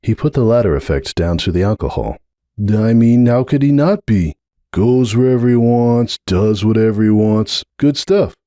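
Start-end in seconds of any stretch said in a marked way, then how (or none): 2.6-8.3 lightly voiced young colt, a bit higher, exasperated; a hint of a frustrated young stallion pushing back; slightly higher, needling nephew voice; young colt Hoops.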